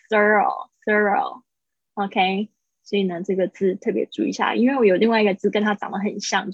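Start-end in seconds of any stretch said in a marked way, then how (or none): 0.1-1.4 "thorough" with R linked into the final O. Shown as a demonstration. Teacher shows linking to students, "thorough" with linked R. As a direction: run the R straight into "oh" in "thorough". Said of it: "R的声音可能会跟后面会连在一起".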